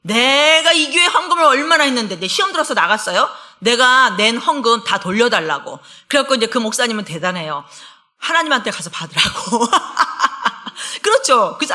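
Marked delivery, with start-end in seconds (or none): 0.0-5.8 angry demand. Retold or imitated. Angry member demands offering back.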